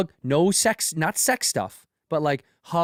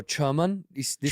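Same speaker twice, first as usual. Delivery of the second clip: slow setup; 4 dB quieter, slower than usual. Shown as a demonstration. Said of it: "say this phrase".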